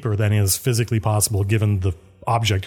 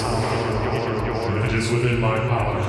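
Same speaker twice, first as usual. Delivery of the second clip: slow solemn oath; 3 dB quieter, slower than usual. Acted.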